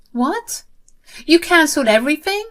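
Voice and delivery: high, loud, fast disbelief; can't believe what she hears; shocked. Acted. Sister shocked on phone.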